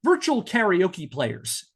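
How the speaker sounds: each word set apart slowly; slow quoted phrase. Shown as a demonstration. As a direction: read the quote out slowly and pointedly.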